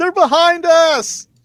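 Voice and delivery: very high, loud, alarmed scream. Voicing a gnome who looks behind him and warns Terry: gnome screaming a warning. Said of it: "the gnome looks behind him and screams at Terry".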